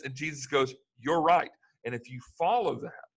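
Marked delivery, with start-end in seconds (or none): 1.0-1.5 emphatic agreement. Retold or imitated. Jesus voiced agreeing.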